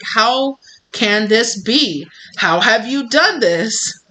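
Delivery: slow, drawn-out mock astonishment; acted disbelief. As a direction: draw it out like a baffled emperor. Acted emperor baffled by the lions.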